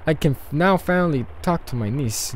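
lightly acted Russian accent. Leos can finally talk to his niece, Russian accent. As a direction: marvel with a touch of Russian accent. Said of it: "I'm doing a Russian accent".

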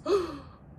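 sharp, high gasp of outrage; shocked gasp. Retold or imitated. Jasmine reacting to Jafar's claim, offended gasp. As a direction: gasp like she's been slapped. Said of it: "And she goes".

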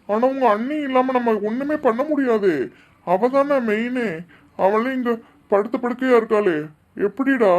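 helpless, worked-up appeal; distraught protest. Acted. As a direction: protest in distress to a younger brother. Distraught husband protests to younger brother. (தவிப்புடன் ஆதங்கம்)

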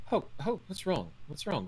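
high, alarmed worried calling; worried friend. Acted. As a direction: rush in, panicked for a friend. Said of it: "Bade runs over and is like".

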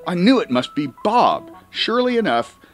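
ordinary delivery, nothing marked

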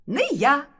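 high, loud mouse voice; high little protest; refusing little mouse. A narrator's reading. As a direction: pipe up in quick refusal. Mouse refuses chore in fairy tale.

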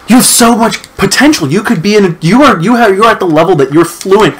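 high-pitched imitation of an admiring teacher; gushing praise. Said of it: "she was heaping on the praise".

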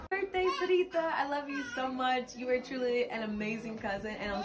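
choked up, pushing through the words; fighting back tears at a birthday; teary. Real, not acted. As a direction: voice wavering with real tears. Tearful cousin birthday message.

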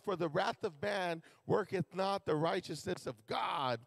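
slow, deliberate scripture read. Acted. Preacher reading James to congregation, slow. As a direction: weigh every word of the verse.

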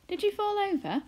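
a mother checking on her daughter; Homily's voice. A narrator's reading. A mother asks her daughter if she fell.

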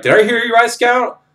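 high-pitched imitation of an indignant superior; affronted general. General questions a scout who said no, affronted.

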